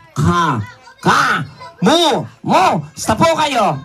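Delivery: "Ka. Ka. Mu. Mu. Sta po kayo?" split into separate syllables. Shown as a demonstration. Teaching the puppet to greet, syllable by syllable. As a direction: spell out "Kamusta" one beat at a time. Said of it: "gayahin mo ko".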